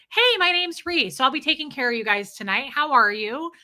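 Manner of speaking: upbeat server introduction, starting high and loud; lightly acted friendly waitress patter; warm, friendly server. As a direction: welcome the table warmly. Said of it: "they're warm and friendly".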